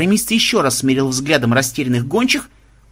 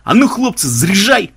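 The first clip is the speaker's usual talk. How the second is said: high, rousing command; rally the lads with a lifted call; calling out an order; 6 semitones higher, 4 dB louder than usual. A narrator's reading. Tornado ordering his men to load, rousing. Leader orders catapult loaded.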